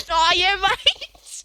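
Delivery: very drawn-out, high Aussie drawl; rural Australian. Acted. Mimicking rural Australians chatting to a mate, exaggerated Australian drawl. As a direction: exaggerate the Australian vowels, slow and stretched. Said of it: "some of us do sound like that".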